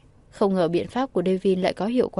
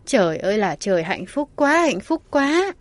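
excited gushing, building; 2 semitones higher, 4 dB louder than usual. Acted. Bo gushes, rising.

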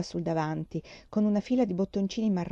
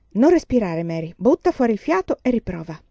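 worried; 3 semitones higher, 6 dB louder than usual. Acted. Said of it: "disse preoccupata".

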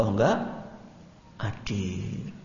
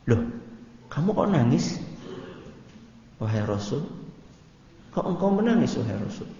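surprised question; 3 dB quieter than usual. Retold or imitated. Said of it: "dan berkata".

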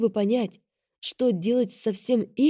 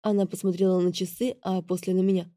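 ordinary delivery

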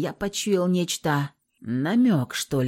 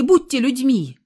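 high, loud appeal to their humanity; shouted plea through the door; pleading shout; 7 semitones higher, 7 dB louder than usual. A narrator's reading. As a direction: cry out to them for mercy. Captive begging guards for water.

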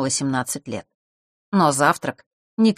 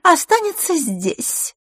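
Mark's insistence; 13 semitones higher, much slower than usual. A narrator's reading. Mark insists, exclamation.

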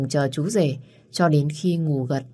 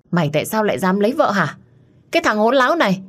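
higher and louder, building rage; furious scolding; 6 semitones higher, 4 dB louder, faster than usual. Acted. Mad mother screaming at her son for marrying.

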